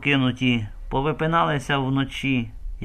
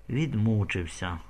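calm; 2 semitones lower than usual. Acted. Old woman calmly declaring Roman dead, calm. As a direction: state it calmly, without grief. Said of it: "сказала спокійно".

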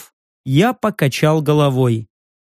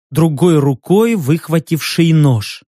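usual speaking voice

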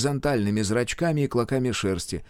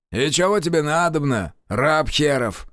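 put-on contemptuous old sorcerer; 5 semitones higher than usual. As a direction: sneer at the intruder. Kiloviaz voice.

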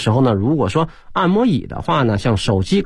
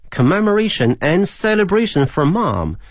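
measured English model reading for learners; reading aloud; 3 semitones higher than usual. Shown as a demonstration. Teacher reading the text to students once more, measured read-aloud. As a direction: read the lesson text out clearly. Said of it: "给大家再朗读一遍".

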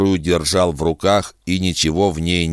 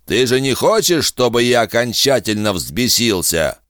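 rattling inhuman voice; 5 semitones higher than usual. A narrator's reading. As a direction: sound like snakes in the throat. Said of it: "странная дребезжащая нотка".

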